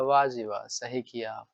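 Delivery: put-on mischievous boy praising. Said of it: "वो कहेगा".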